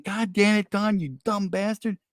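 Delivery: mock self-scolding. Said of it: "And then I'll say it again".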